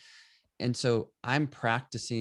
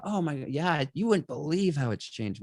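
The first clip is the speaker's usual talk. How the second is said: higher, lightly voiced old neighbor; old resident reminiscing; 6 semitones higher than usual. Longtime resident telling the photographer about change, lightly voiced. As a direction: let the local's voice lift as they remember.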